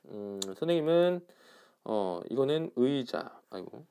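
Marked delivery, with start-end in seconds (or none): 2.8-3.4 의자 slow, with 의 as a full diphthong; full 의 sound. Shown as a demonstration. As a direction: draw out 의자, gliding eu to ee. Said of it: "이렇게 발음을 했고요".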